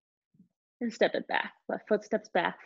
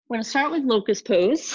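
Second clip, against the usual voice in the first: out of breath; 3 semitones higher, 4 dB louder than usual. Real, not acted. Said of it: "Sorry, I'm out of breath".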